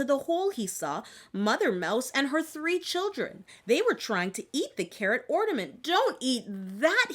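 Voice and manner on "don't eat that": shouted. Acted. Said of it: "he shouted".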